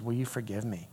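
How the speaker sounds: very soft, low plea; hushed, humble request; retold plea for forgiveness. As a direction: gently ask to be forgiven. Boy asks girl for forgiveness.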